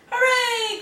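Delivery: high, loud hooray; joyful cry. A narrator's reading. Hedgehog freed of her load, high joyful cheer. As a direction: cheer it out, free at last. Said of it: "cried Hedgehog".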